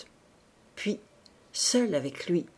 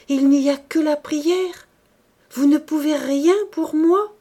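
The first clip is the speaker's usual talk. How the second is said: higher, louder desperation; desperate question; 7 semitones higher, 7 dB louder than usual. A narrator's reading. Woman desperately pressing the priest, louder. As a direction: plead for any other help.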